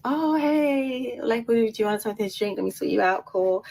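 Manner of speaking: chirpy imitation of helpful bar staff; lovely, friendly staff. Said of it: "the staff are being absolutely lovely".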